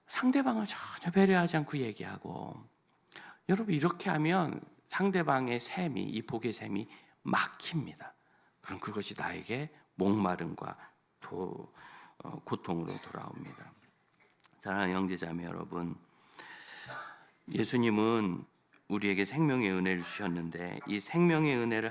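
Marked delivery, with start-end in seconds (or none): none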